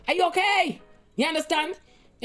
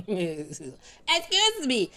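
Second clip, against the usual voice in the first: laughing; much slower than usual. Retold or imitated. Laughing repeat of quote.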